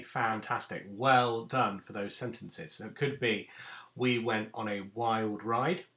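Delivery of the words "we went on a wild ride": example sentence. Shown as a demonstration. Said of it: "That could be a statement".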